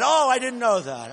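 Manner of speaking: a hint of faked innocence, imitating him; mock naive rival. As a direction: play dumb in a mocking imitation. Mock voice of rival feigning ignorance.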